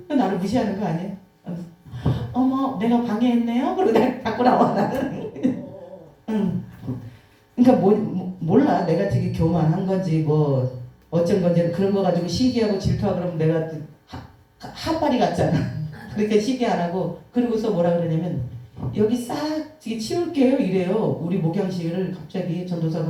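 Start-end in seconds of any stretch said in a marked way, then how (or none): 2.3-3.7 high mock-surprised sneer; sarcastic surprise. Pastor's wife catching the flirt, mock surprised. 19.0-20.6 high, honeyed offer; sweet-talking evangelist. Retold or imitated. Evangelist sweet-talking the pastor, high honeyed offer.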